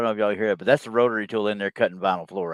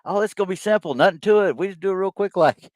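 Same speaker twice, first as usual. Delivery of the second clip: mock carefree voice; 9 semitones higher than usual. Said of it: "we thought".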